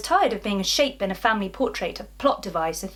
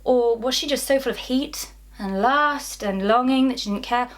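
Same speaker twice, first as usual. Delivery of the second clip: higher, imitation of judgmental askers; mock scandalised questioning; 4 semitones higher, 4 dB louder than usual. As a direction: pile up their pitying questions mockingly. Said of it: "they ask".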